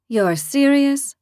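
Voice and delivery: can't believe what she just heard; surprised. Acted. Lily asking Camus if he is serious, surprised. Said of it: "Lily said, surprised".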